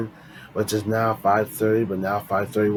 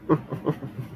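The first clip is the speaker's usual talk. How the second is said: short laugh; 3 semitones higher, 6 dB quieter than usual. Real, not acted. Laughs at own voice.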